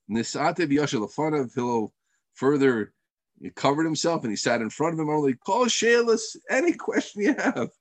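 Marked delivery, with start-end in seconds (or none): 5.3-7.7 high-pitched, open-hearted invitation; eager welcome. Retold or imitated. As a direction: invite every question, imitating a patient sage. Hillel voiced welcoming any question.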